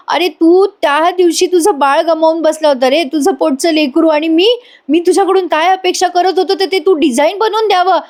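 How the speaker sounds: guilty father's lament. Acted. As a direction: scold yourself as a father breaking down. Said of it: "त्याला जोरात चापट मारतात आणि म्हणतात".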